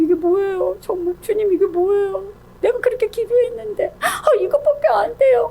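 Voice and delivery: high, softened mock whine; hammed-up tearful griping; whiny complaint. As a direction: whimper to God in exaggerated disappointment. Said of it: "조금만 저기 하면".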